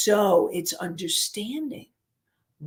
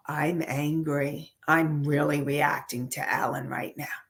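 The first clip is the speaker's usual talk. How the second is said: softer, lower and whispered self-admission; hushed, dawning self-awareness; inner realization; 5 semitones lower, 6 dB quieter than usual. Pretend. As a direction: admit it quietly to yourself. Joy's inner realization voiced.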